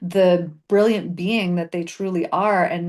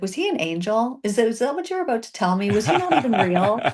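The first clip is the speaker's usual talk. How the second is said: laughing; 4 semitones higher than usual. Retold or imitated. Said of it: "I was like".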